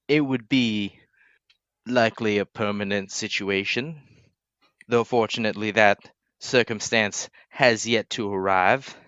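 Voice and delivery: slow, hesitant formal explanation; sheepish lord. Acted. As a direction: explain haltingly, with mild embarrassment. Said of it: "William looks very sheepish and goes".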